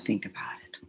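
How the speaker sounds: breathy whispered admission; whispered, turning away from it. Shown as a demonstration. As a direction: hush it as if confessing. Tapping script, sudden whisper.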